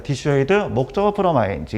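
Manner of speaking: 디슈에이드 run on into 목적어 from ing; joined-up pattern reading. Shown as a demonstration. Teacher shows students to read it attached, joined-up reading. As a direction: read 디슈에이드, 목적어 from ing as one connected chunk, falling at the end. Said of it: "이런 식으로 붙여서 읽어야 돼".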